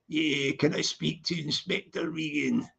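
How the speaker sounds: low, quiet nervous delivery; nervous actor's line. Acted. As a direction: mumble the line like a shy extra. Humble plays his movie line.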